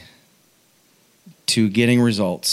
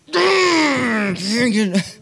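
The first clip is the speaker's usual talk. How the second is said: high comic growl of frustration; hammed-up wordless grr; mock frustrated growl; 11 semitones higher than usual. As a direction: growl in exaggerated exasperation. Imitating his own worked-up reaction.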